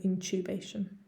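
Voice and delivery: British "intubation", TU said as "chew"; British accent. Shown as a demonstration. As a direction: back to English in-CHOO-bay-shun for "intubation". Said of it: "With a British accent".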